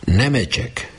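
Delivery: high call of the name, tears in the throat; repeating the name while fighting tears; near tears. A narrator's reading. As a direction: hold back a sob as you call him. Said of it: "már a torkán volt a sírás".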